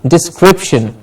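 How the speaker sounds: "Description" with weight on CRIP; falling dis-CRIP-shun; stress on CRIP. Shown as a demonstration. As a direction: say "Description" with a strong middle syllable. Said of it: "Crip gets the stress".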